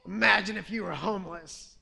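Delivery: imitating a passerby's taunt lightly; mocking. Passerby taunting a homeless beggar, mild mock sneer. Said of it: "he mocked me".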